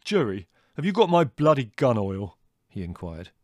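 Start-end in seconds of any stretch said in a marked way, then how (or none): 0.0-2.4 louder and higher, a brother barging in; belligerent demand. Acted. Older brother bursting in, demanding his gun oil belligerently. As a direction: bellow it as the angry older brother. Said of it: "appeared belligerently".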